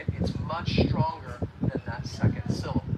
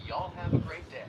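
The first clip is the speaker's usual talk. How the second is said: Southern accent. Shown as a demonstration. Teacher quoting a Southern farewell, Southern accent. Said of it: "you might hear somebody say".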